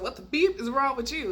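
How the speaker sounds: retold exasperated outburst; incredulous demand. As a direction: demand an explanation in disbelief. Repeats the retold confrontation.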